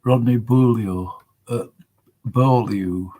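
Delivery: "Beaulieu" tried as bool-yo, then bohl-yu; testing "Beaulieu", second try as BOH-lyu; trying out pronunciation. Shown as a demonstration. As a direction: sound out "Beaulieu" twice with a y-glide after the l. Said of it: "it's not Rodney Below".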